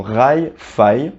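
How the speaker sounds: rail, faille, each ending clearly in ah-y; aille sound. Shown as a demonstration. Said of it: "alors ça se prononce aille".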